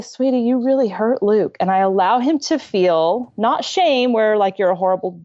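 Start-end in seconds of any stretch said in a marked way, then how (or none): 0.0-1.6 gentle. Retold or imitated. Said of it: "So then I say".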